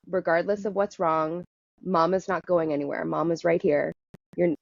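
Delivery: reassuring mama voice. Retold or imitated. Mother soothing her frightened inner child, reassuring. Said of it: "I just went into".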